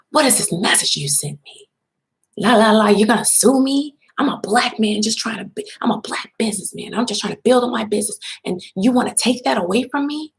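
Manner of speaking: high, indignant mock rant; mocking his outraged voice. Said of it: "That's how you talking to him".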